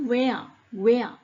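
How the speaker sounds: "where" modelled as weh-ah; pronunciation demo. Shown as a demonstration. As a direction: say "where" twice, clearly showing the eh-ah glide. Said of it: "in this set of words you hear".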